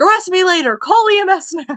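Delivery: urgent, pressing delivery.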